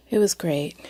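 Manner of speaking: hushed whisper, almost no voice. Shown as a demonstration. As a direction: breathe it out as a secret. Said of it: "so it was great".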